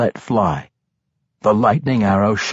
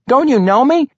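very high, louder desperate question; pleading cry; 14 semitones higher, 5 dB louder than usual. A narrator's reading. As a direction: plead with a friend turned foe. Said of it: "Regis cried".

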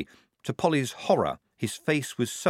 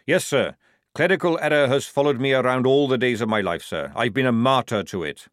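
loud, hearty sergeant; sergeant character; 3 semitones higher, 5 dB louder than usual. Acted. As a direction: speak up like a hearty old soldier.

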